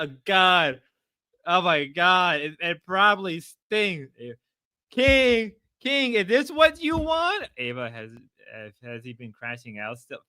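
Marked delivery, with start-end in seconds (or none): 4.9-7.5 very high falsetto call; mock taunting. Streamer taunting King on screen, mock falsetto. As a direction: call and tease in a squeaky-high voice.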